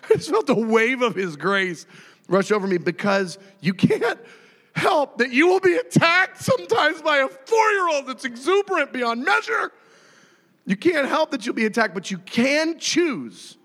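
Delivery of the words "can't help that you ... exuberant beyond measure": high, forceful preaching cry; comic exasperation. Real, not acted. Exasperated preaching about being attacked.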